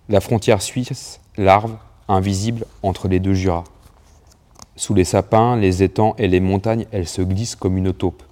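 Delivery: reading a poem to the listeners. Acted. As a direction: read it out like a poem, unhurried at first. Reads the poem aloud.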